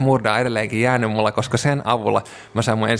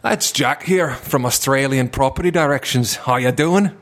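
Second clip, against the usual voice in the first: put-on slower English with a different playful accent; another put-on accent; 4 semitones higher, slower than usual. Call-centre joker redoing his pitch in another accent. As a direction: drag the intro out in a new mock accent. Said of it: "tein paljon eri puheluita eri aksenteille".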